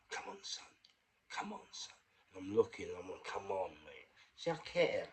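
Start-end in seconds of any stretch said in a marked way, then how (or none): 0.1-1.9 urgent, hushed bedside whisper; imitated whisper. Whispering to an unresponsive patient, urgent imitated whisper. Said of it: "I'm whispering to him like that". 3.2-4.1 low, hushed coaxing; retold whispering. Willing the patient to wake, hushed retold urging. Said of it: "I'm whispering to him like that".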